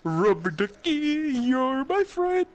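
Ernie voice. Retold or imitated. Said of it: "Ernie from Sesame Street".

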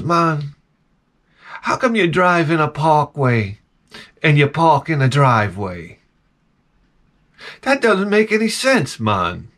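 slow, lightly put-on Jamaican accent; imitated Jamaican accent. Jamaican guy ponders parkways and driveways, imitated Jamaican accent. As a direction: puzzle it out like a Jamaican philosopher. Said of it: "Quintessential Jamaican".

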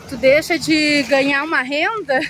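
ordinary talk

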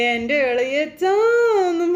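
very slow, sung-out "ഇളയച്ചാ" stretched long and high; sing-song drawn call. Retold or imitated. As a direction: croon "എൻ്റെ ഇളയച്ചാന്നും" like a tipsy teasing call. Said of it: "പറഞ്ഞൊരു വിളി". ("ഇളയച്ചാ" പാട്ടുപോലെ നീട്ടി വിളിക്കുക)

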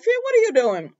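high, loud surprised call; startled call. Real, not acted. Viewer calling out to Finn on screen, startled. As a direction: call out in disbelief.

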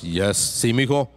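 stern dad voice. Retold or imitated. Son imitating his strict dad from the sofa, lightly stern. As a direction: answer like a strict dad who is half listening. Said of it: "he says in the stern voice".

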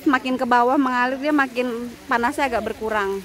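usual speaking voice

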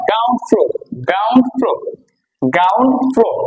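"গ্রাউন্ড ফ্লোর" with the R left out, like "gaun flo"; British dropped R. Shown as a demonstration. Teacher showing students British speech, "গ্রাউন্ড ফ্লোর" without its R sounds. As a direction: say "গ্রাউন্ড ফ্লোর" British-style, swallowing each R. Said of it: "আর এর উচ্চারণটা করে না".

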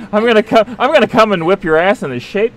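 pumped-up drill trainer shout; tough gym trainer. Acted. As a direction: bark it like a gym coach. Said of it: "kind of trainer".

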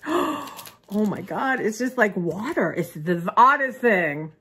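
slow gasping wonder; overwhelmed surprise. Real, not acted. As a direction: gasp and marvel slowly. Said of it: "have a moment".

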